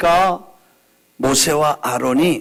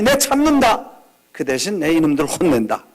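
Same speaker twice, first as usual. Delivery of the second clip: stern God's reply. Pretend. God voiced replying.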